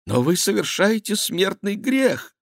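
very high-pitched pious alarm; thin high royal protest; shocked reproach. A narrator's reading. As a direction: warn him, scandalised. King warns monk of sin.

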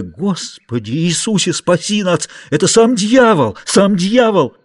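flee babbling in terror; terrified muttering. A narrator's reading. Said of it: "приговаривая".

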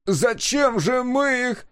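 very high, drawn-out wail; loud, high howl of protest; anguished yell. A narrator's reading. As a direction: cry out in outrage, slow and loud. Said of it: "завопил он так громко".

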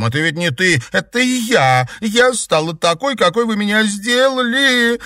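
put-on girl on the verge of sobbing at her sister; nearly sobbing. A narrator's reading. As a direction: voice climbing high, close to tears. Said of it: "Наташа почти рыдала".

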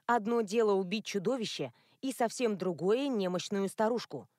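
ordinary delivery

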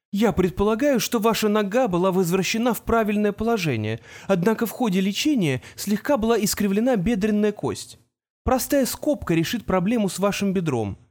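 lightly voiced know-it-all teenager; young genius voice. Artemis explains, narrator voicing.

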